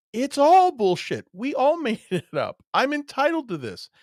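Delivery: over-the-top exposed liar; mock shouted confession. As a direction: blurt it out like a caught liar.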